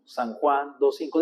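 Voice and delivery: steady repeat of the verse, slightly slow; teacher repeating a verse; repeated recitation. Shown as a demonstration. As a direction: drill it again for memory. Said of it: "dígalo cinco veces para que lo memorice".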